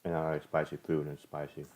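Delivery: talking while crunching chips. Real, not acted. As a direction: mouth full of chips. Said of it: "So excuse the crunchy".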